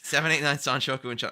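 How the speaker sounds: calling out the hand to the co-host, eager and loud. Real, not acted.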